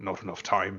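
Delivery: low, half-swallowed muttering. Voicing an old monster hunter who sees a barred door: muttering to himself. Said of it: "just kind of mutters to himself".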